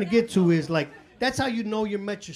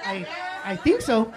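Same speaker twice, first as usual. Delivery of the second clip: slow, unsure imitation of I, I think so; hesitant mock; slower than usual. Shown as a demonstration. Mimicking the audience member's slow doubtful answer. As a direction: drag it out like you doubt yourself. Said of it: "But you were like".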